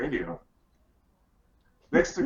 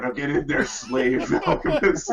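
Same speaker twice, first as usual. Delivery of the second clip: bossy; 5 dB louder than usual. Acted. Bossing a character around.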